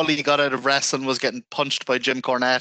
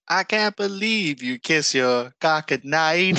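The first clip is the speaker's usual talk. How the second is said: "car goodnight" run together so it sounds like "cock at night"; mock Canadian singer's accent, slow, blurring "car goodnight"; lightly imitated Canadian singer's accent; misheard Canadian accent; 3 semitones higher than usual. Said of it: "in her accent".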